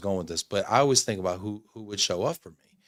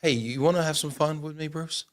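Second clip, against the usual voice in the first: creepy serial killer voice; 6 semitones higher than usual. Pretend. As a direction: lure him in like a creepy killer. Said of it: "You're scaring me".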